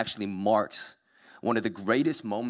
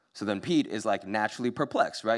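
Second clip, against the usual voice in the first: plain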